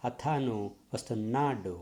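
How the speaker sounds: put-on stress-timed foreign accent on Telugu; foreigner's Telugu. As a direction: imitate a foreigner speaking Telugu with English stress. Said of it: "he speaks Telugu like this".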